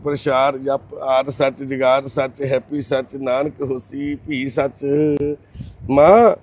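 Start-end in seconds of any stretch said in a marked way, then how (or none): 0.0-4.8 slow, soft recital of the Mool Mantar; measured devotional chanting, slow and hushed; prayer recitation. Real, not acted. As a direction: recite the prayer slowly and quietly, devoutly. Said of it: "ਆਪਾਂ ਤਾਂ ਮੂਲ ਮੰਤਰ ਦਾ ਪਾਠ ਕੀਤਾ".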